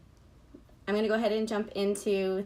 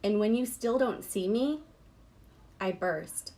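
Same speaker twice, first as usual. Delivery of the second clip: measured recital with a pause after each line; deliberate poetry-reading voice. Real, not acted. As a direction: read it as verse, giving every image room.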